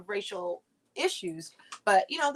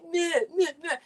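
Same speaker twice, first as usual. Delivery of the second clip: mock meh; 6 semitones higher than usual. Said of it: "the Democrats are like".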